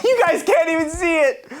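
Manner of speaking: high-pitched, laughing excitement; giddy laughter. Real, not acted. YouTuber showing viewers the gift, giddy and laughing. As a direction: let a laugh push the voice up.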